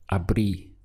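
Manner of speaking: "abrí" stressed on the closing "í"; stress on final í. Shown as a demonstration. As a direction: make the accented "í" in "abrí" carry the word. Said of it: "your pronunciation reflects that accent".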